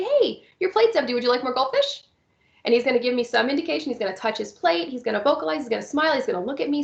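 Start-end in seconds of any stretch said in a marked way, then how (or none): 0.0-2.0 bright prompt. Shown as a demonstration. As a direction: cheerfully catch him before he yells. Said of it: "I'm gonna say".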